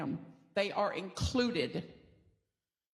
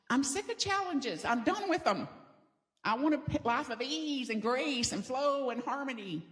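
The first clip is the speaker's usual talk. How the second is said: whiny complaint; 4 semitones higher than usual. Retold or imitated. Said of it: "I'm like".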